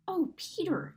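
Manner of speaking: a breathy, half-hushed exclamation; exclaiming. A narrator's reading. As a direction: gasp out his name in wonder. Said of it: "exclaimed Lucy".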